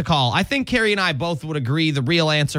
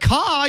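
crow caw; 9 semitones higher than usual. Pretend. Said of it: "you're doing a crow".

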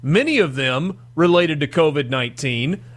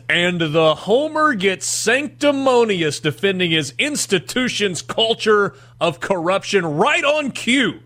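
preachy, self-righteous reading, pitched higher; sanctimonious; 4 semitones higher than usual. Acted. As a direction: read it like a smug sermon. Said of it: "Do it as sanctimonious as you possibly can".

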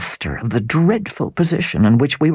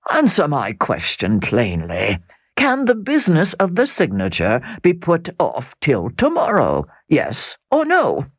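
a lightly voiced smooth nobleman, insistent; Count pressing. Count demanding a yes or no from Sir Percival. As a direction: corner him politely but firmly.

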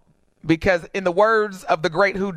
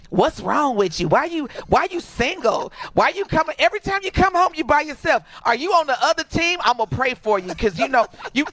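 nosy auntie impression; 5 semitones higher than usual. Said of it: "you got that one auntie".

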